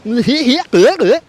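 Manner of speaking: high, goofy cartoonish laugh. Demonstrating a wacky trailer sound, goofy laugh. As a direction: put on a silly high chuckle.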